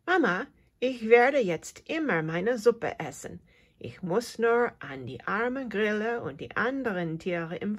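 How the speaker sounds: full of happiness. Acted. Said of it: "sagt Leo voller Glück".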